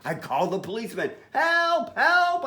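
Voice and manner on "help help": put-on high-pitched boy calling for help; storybook boy in a panic; frantic call for help. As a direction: cry out for help, high and urgent. Boy phones policeman for help.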